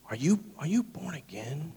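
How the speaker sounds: hushed, half-whispered imitation of a challenge; pointed question. Woman's pointed question retold.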